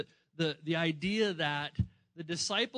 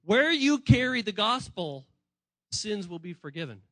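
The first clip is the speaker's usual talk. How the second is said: emphatic proclamation; 5 dB louder than usual. Retold or imitated. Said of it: "and he's saying".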